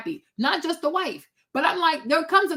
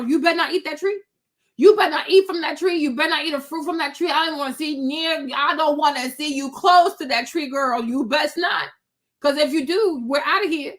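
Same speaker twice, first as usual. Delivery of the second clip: stern warning. Retold or imitated. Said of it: "Adam warned that girl".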